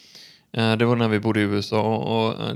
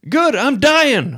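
high, loud, drawn-out mock-cheery call; ropat svar; 7 dB louder, much slower than usual. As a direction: call out dreadful news like a routine cheerful greeting. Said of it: "Och så ropar min pappa". (högt, långsamt och låtsat glatt rop)

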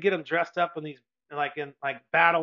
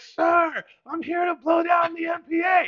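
much higher, loud shout over the noise; yelling to the officer; 14 semitones higher, 6 dB louder, slower than usual. Retold or imitated. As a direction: bellow it out to be heard. Yelling to officer in engine room.

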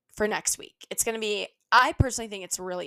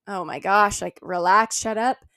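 annoyed listener; 3 semitones lower, 5 dB louder than usual. Retold or imitated. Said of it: "you guys are listening to me like".

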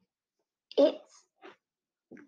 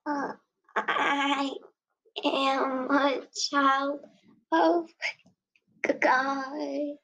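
stuttering; 2 semitones higher than usual. Acted. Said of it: "Mia was stuttering".

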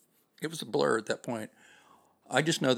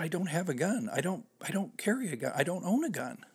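frightened pleading; 8 semitones higher than usual. Retold or imitated. Driver pleading at gunpoint.

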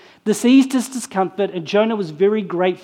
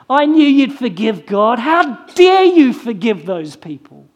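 indignant accusation; 2 semitones higher, 5 dB louder than usual. Retold or imitated. Jonah accusing God, louder, indignant. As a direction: hurl God's kindness back as an insult. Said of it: "He spits back into God's face".

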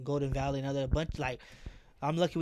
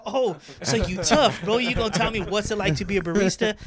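confrontational; 6 semitones higher, 10 dB louder than usual. Retold or imitated. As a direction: dare him to say it again. Squaring up to customer.

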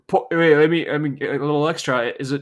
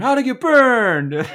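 high, slow, laughing through the words; laughing Cage yell; 12 semitones higher, 10 dB louder than usual. Retold or imitated. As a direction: drag it out, cracking up. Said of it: "you can use the".

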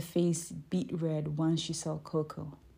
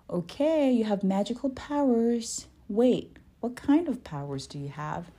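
questioning; 6 semitones higher, 5 dB louder than usual. A narrator's reading. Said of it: "she questioned".

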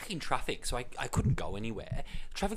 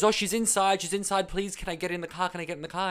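desperate plea; 6 semitones higher, 5 dB louder than usual. Retold or imitated. Stranger begging to get in.

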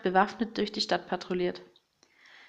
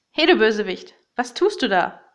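loud challenge to the villain; shouting; 6 dB louder than usual. Acted. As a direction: call him out loudly. Hero confronts villain. (laut rufend)

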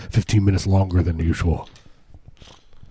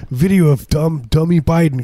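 mocking right-wing poster; 7 semitones higher, 4 dB louder than usual. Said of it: "Like the Daily Stormer, like".

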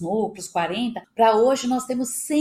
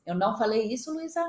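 mock protest. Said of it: "eu falei assim".

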